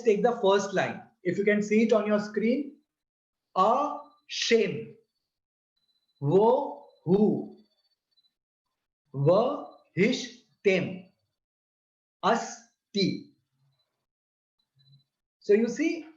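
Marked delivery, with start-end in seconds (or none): 3.6-13.3 a shame, wo hu, va hish tem, asti slowly split into syllables with pauses. Shown as a demonstration. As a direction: chant the prayer line syllable by syllable. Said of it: "shows the syllables in the Ashem Vav prayer".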